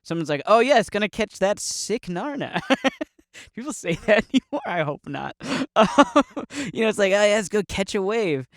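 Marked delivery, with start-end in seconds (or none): 0.5-2.6 higher-pitched, lightly voiced surfer; mock surfer. Surfer talking slang to baffled people, lightly hammed surfer. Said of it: "same thing with surfers". 7.1-8.5 higher-pitched, half-hearted surfer impression; a hint of surfer, pitched up; mock surfer. Surfer suggesting a wave, lightly imitated and higher. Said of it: "I don't know how surfers talk".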